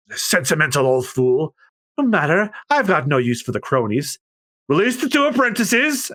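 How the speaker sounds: high scornful order; villain scorning the judge; dismissive villain. Acted. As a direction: sneer and wave them off. Spandam dismissive.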